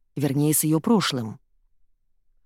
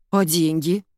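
ordinary delivery

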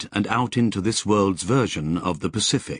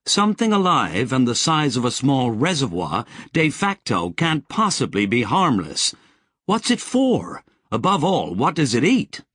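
higher, insistent alarmed growl; 5 semitones higher than usual. Acted. Sally growling her doubts at Lobsang, higher. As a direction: push back hard, rising to the question. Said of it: "Sally growled".

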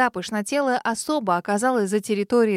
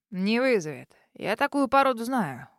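soothing drawl. Acted. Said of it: "успокаивающе протянул Харитон".

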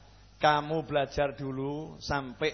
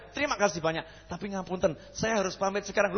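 overly polite leave-taking; 4 dB quieter than usual. Retold or imitated. Polite exit from the critic.

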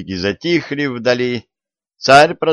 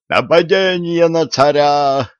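hoch und langsam, gedehnter Alarmruf; Geschrei des Hauptmanns; 6 semitones higher, slower than usual. A narrator's reading. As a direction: schrei es wie ein erschrockener Hauptmann heraus. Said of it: "завопил сотник".

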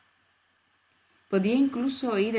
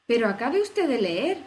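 indignada; 3 semitones higher, 4 dB louder than usual. Acted. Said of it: "exclamó Alicia indignada".

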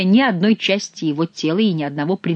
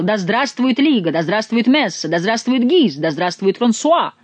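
mock cheering, a little raised; retold chant of acclaim; imitated crowd cheers; 4 semitones higher than usual. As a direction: reel off the crowd's slogans with rising-and-falling swings. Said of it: "Этот народ кричал".

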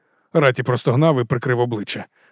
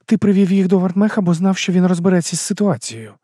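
higher female voice, firm questioning; a woman pressing for the truth, pitched up; Арада, вищий жіночий голос; 6 semitones higher than usual. A narrator's reading. Arada voiced. (вищий жіночий голос, наполегливе запитання)

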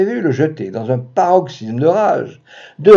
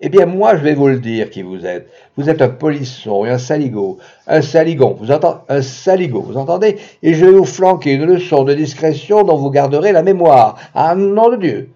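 furious husband; 2 semitones higher, 4 dB louder than usual. Acted. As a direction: bark it out in rage at the intruder. Mari furieux crie sur l'amant. (mari furieux qui crie)

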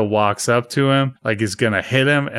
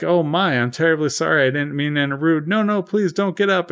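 higher, fussy, apologetic droid voice; flustered robot butler apologizing, pitched up; a lightly done prim droid, fussing politely; fussy protocol droid; 5 semitones higher than usual. Retold or imitated. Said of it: "And then he's like".

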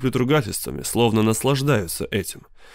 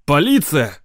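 loud, much higher yell; 4 semitones higher, 4 dB louder than usual. Acted. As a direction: bellow it out. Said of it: "завопил Сид".

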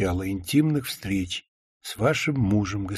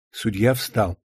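ordinary delivery

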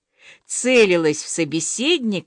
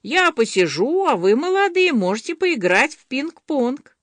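higher, lightly put-on granny voice; old-woman voice; 6 semitones higher than usual. A narrator's reading. Masha sends the young ones off to play, lightly voiced granny. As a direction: play at being an old lady, pitched up. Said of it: "старушечьим голосом задребезжала Маша".

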